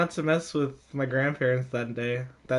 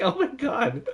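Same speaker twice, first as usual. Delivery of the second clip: laughing; 8 semitones higher, 3 dB quieter than usual. Retold or imitated. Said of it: "I'm like".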